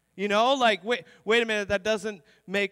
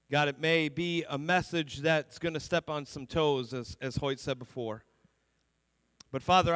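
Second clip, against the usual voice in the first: congregational prayer; 3 semitones lower than usual. Real, not acted. Pastor praying before the sermon, measured and hushed by the end. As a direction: lead a prayer, gradually lowering the voice toward amen.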